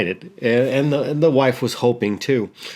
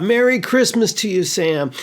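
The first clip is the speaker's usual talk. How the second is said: much higher, calling out across the road; screaming out; 9 semitones higher than usual. Retold or imitated. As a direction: hail a passing neighbour at full voice. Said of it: "the dad screams out".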